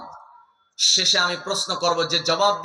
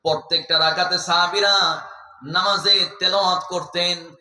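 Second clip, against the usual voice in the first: melodic sermon exhortation. Acted. Preacher urges friends to focus on prayer, melodic chanting. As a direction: intone it like a preacher, stretching the phrase endings.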